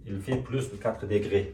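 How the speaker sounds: slow, careful French model; slow model sentence. Shown as a demonstration. Teacher modelling the French sentence slowly for students. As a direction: lay out every word for the class.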